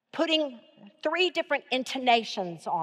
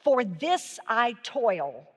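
slow emphatic reading; much slower than usual. Shown as a demonstration. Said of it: "Let these four words hit home".

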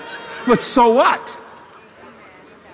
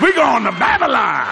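three men hollering; 2 semitones higher than usual. Retold or imitated. Three clueless men heading for Babylon, mock-eager holler. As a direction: imitate men whooping off on a trip. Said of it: "And those three men said".

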